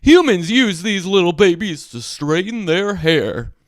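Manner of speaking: lightly voiced Scuttle, sure of himself; a know-it-all bird voice, stated firmly; certain seagull. A narrator's reading. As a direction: Scuttle the Seagull telling Ariel what it is, with certainty. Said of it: "he said with certainty".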